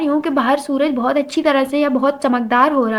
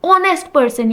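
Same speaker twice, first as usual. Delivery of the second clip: slow teaching demo; much slower than usual. Shown as a demonstration. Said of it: "आ का sound है तो एन लगाएंगे".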